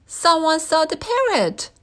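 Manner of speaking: high, loud hurried call; urgent shout. A narrator's reading. Zookeeper calling out about the escaped parrot, loud. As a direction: keep yelling the news. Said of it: "she yelled".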